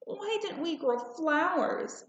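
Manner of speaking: put-on high, slightly sulky little girl; child's question. A narrator's reading. Girl asking her mother again, high and a bit sulky. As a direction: ask again with a hint of complaint. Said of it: "I asked again".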